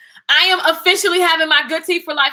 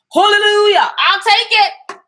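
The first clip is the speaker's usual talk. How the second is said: higher and louder, drawn out; joyful hallelujah; 7 semitones higher, 6 dB louder, slower than usual. Real, not acted. Celebrating a merch explosion, loud and joyful. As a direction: ring it out in praise. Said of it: "celebrating a merch explosion".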